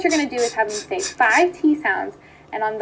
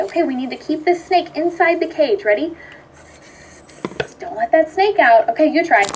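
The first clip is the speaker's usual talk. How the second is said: put-on playful with a child; 3 semitones higher than usual. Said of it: "So I'll say".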